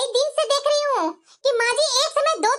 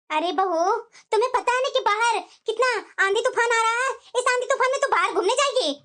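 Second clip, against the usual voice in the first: scolding mother-in-law; 2 semitones lower than usual. Acted. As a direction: forbid her going out, mildly stern. Mother-in-law forbids outing. (बहू को रोकती हल्की डाँटती सास)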